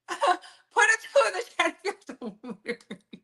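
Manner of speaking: laughing through the words. Real, not acted. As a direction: giggle while asking the chat. Laughing through poll request.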